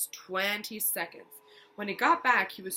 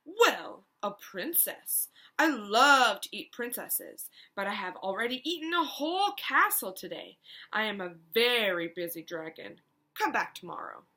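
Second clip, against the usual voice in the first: a big busy dragon booming out his boasts; boastful dragon; 5 dB louder than usual. Acted. Dragon speaks from his door.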